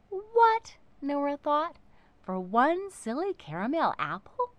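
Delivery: a high, loud shocked gasp of a word; outraged at the price tag; high and loud disbelief. A narrator's reading.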